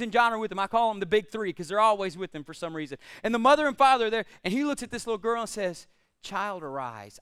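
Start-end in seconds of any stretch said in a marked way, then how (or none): 6.2-7.2 put-on soft, low, calm "Child, arise"; quiet command. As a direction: speak it gently with full authority. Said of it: "I don't think he had to raise his voice".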